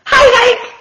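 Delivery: high, bright hello from a tumbleweed; cheery call. Acted. Tumbleweed Rosie calls out to Hank, high and cheery. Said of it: "Rosie the tumbleweed called out".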